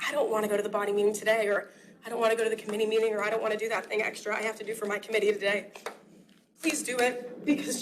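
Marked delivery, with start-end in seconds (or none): 0.1-5.7 mock whiny reluctance. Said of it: "you think to yourself".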